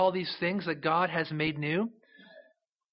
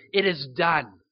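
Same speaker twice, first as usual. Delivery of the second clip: louder, ringing "It is done" as a triumphant declaration; a preacher voicing God's triumphant cry of victory; 4 dB louder, slower than usual. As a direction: proclaim it like a shout of victory won. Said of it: "God is making that same cry of victory".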